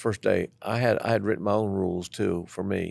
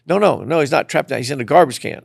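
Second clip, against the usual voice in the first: flustered protest; 6 semitones higher, 6 dB louder than usual. Retold or imitated.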